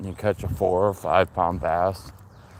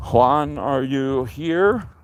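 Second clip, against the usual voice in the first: paranormal investigator; 2 semitones higher, slower than usual. Pretend. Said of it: "You sound like a paranormal investigator".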